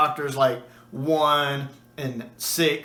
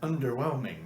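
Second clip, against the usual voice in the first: flippant. Retold or imitated. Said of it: "how flippant he is here".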